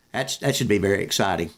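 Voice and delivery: dry, understated sarcasm; sarcastic. Real, not acted. Host mocking a lopsided game's appeal, sarcastic. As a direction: say it low-key, with dry irony. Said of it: "I'm being sarcastic".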